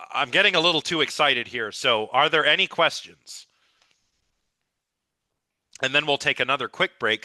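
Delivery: a bit scratchy, tired voice. Real, not acted. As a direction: talk through a scratchy throat. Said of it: "but it is a little scratchy".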